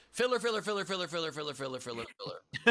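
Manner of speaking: descending, fading gabble; mock stalling patter. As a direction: chant it as filler, sinking and fading. Stalling with a repeated word.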